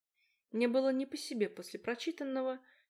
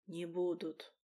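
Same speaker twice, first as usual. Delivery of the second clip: wheezed; 3 semitones lower, slower than usual. A narrator's reading. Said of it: "просипел он у моих губ".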